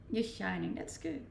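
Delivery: usual speaking voice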